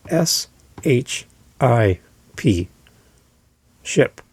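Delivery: S H I P spelled slowly, then ship said clearly; careful slow spelling of ship. Shown as a demonstration. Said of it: "I want you to understand they're saying".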